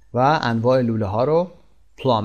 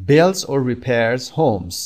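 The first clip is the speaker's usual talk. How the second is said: slow model reading; much slower than usual. Shown as a demonstration. Teacher reads the definition to learners, very slow and careful. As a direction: read "Builds or repairs homes" very slowly, word by word. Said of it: "teacher repeats definition sentence".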